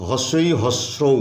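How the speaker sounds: slow, syllable by syllable. Shown as a demonstration. Teacher breaking a word into syllables, slowly. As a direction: spell out the sounds slowly. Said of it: "উচ্চারণ করতে গিয়ে ইউনিভার্সিটি".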